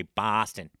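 broad "Boston" with an open ah; amateur Boston accent attempt; mock Boston accent. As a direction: imitate a bad Boston accent on "Boston". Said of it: "people always say".

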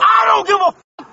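furious yell; angry shout. Real, not acted. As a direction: shout it back in real anger. Shouting at arresting officer.

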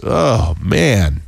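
ordinary delivery

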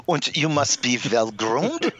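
put-on light German accent, slowed down; a hint of German accent, unhurried; mock German accent. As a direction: play a stiff German instructor. Mock German dating class rules.

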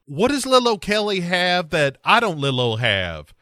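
mild mock shout; half-shouted comic jealousy; shouts after him. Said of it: "Alexa shouts after him".

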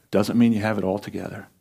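ordinary talk, nothing marked

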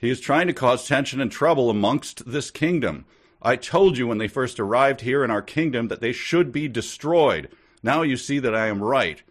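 a prince pressing his case, a touch heated; mildly angry. Acted. Prince accuses the visitor before the king, mildly angry. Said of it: "the king said angrily".

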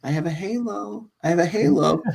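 put-on high, sweet child voice; sing-song little girl. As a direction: act the angelic little daughter. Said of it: "she used to do that".

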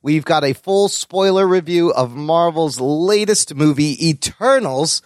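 measured announcer-style episode rundown; podcast intro read. Acted. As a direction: read out the show's headlines like a promo.

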